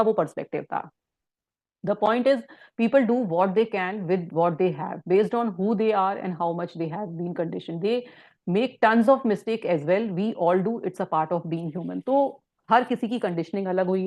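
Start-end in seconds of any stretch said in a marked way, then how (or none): 1.9-12.1 quote reading. Acted. Reads book passage aloud.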